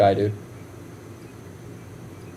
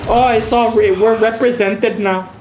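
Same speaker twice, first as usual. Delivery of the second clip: higher, slow smug mock tone; 5 semitones higher, slower than usual. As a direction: parody a smug viewer, drawn out. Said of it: "get the fuck outta here with that".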